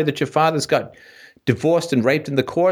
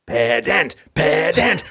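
pedant voice; 3 semitones higher, much slower than usual. Retold or imitated. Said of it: "Mike's like".

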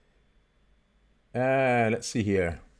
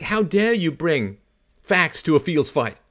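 higher, slow mock outrage; mock annoyance; 5 semitones higher, slower than usual. Debater affronted by facts, mock annoyance. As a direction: play at being affronted. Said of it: "Alex just getting annoyed".

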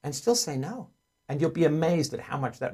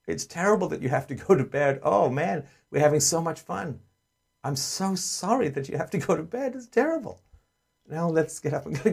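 exaggerated sympathy; 3 semitones higher than usual. Shown as a demonstration. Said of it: "I'm like".

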